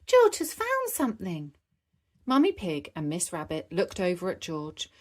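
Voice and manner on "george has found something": calling out. Acted. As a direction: call across the beach to mum. Peppa calling out.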